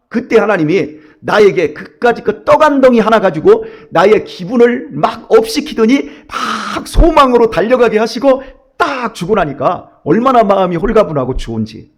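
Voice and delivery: ordinary talk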